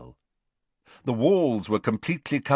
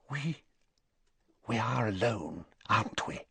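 hushed, nervous and much softer; quiet; 2 semitones higher, 8 dB quieter than usual. A narrator's reading. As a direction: ask it under your breath, uneasy. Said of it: "Narcissa asked quietly".

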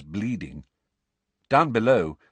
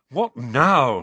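louder, short impatient question; louder impatient snap; 3 semitones higher, 7 dB louder than usual. A narrator's reading. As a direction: bark it, annoyed at the stop. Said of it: "he said impatiently".

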